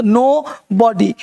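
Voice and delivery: नो बॉडी slowly, with a long "oh"; letter-name vowel. Shown as a demonstration. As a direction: break नो बॉडी into "nooo, bo-dee". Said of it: "ओ है ना".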